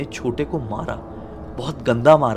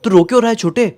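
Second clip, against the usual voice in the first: alarmed call; 8 semitones higher, 5 dB louder, much faster than usual. Acted. Brother finds sibling crying, alarmed.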